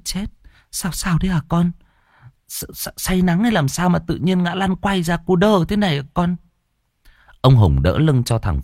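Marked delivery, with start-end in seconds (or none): 0.0-6.4 worried mother. Acted. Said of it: "Bà Linh lo âu".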